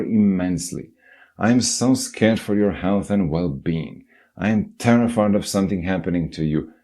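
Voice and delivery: put-on a terrified mother scaring her child; panicked mother's rant. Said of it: "screaming at them about how".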